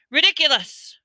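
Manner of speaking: high, loud bellow. A narrator's reading. Ron facing the giant spider, bellowing. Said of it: "bellowed Ron".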